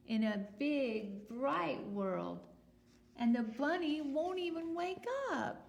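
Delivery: a hint of a high, fretting little duck; lightly voiced duck. Teacher voicing the duck, mildly fretting. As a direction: let the duck complain a little. Duck's speech, higher and louder.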